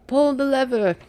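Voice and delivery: mock the sly villainess giving an order; Eartha Kitt as Yzma. Comparing a reality star to the cartoon villain, lightly imitated. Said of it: "Eartha Kitt as Yzma vibes".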